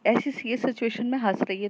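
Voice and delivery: loud high scolding of a giggling friend. Acted. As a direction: tell her off while smacking her head. Tanu smacks Kayra's head.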